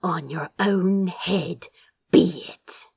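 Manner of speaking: soft, tight venomous threat; venomous hiss. A narrator's reading. Defeated Lord Beals threatening Crow, hissing softly. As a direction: hiss the threat quietly with a catch. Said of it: "she hissed".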